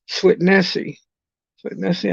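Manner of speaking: trying out the stress on "Swit Nessie"; "Swit Nessie" sounded out with deliberate emphasis; careful syllable emphasis. Real, not acted. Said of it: "putting the emphasis on the correct syllable".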